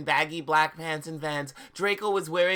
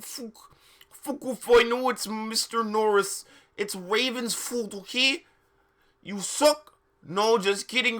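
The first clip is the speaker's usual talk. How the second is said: higher, louder sassy put-on voice; raised snarky teen rant; bratty author voice; 6 semitones higher, 3 dB louder than usual. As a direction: read it as a snotty teen author ranting. Reads author's note in character.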